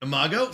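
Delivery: i-MAH-go; Imago with ah. Shown as a demonstration. Streamer demonstrating Imago to chat as i-MAH-go. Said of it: "So I said Imago".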